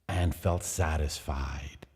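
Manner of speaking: slow hushed whisper. A narrator's reading. Montresor whispering his satisfaction to himself. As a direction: breathe it out, satisfied.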